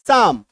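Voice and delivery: साम said plainly as saam; silent p and l psalm. Shown as a demonstration. Teacher repeats साम after the spelling. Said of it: "L silent ... P silent".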